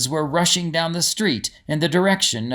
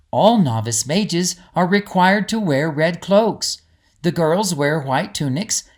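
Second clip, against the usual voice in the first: a hint of an encouraging companion; Greta's voice. Greta explains novice mage cloaks.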